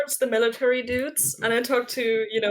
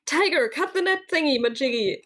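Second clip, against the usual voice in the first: raised-pitch order to an animal; calling a command; 4 semitones higher than usual. Acted. Player orders the tiger to cut the net, high playful command. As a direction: call out to the tiger, improvising.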